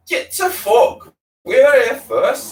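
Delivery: high, loud, slow rasping yell; angry shout. Acted. Sick Boy yelling at rivals over the cab, angry shout. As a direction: shove them off with your voice.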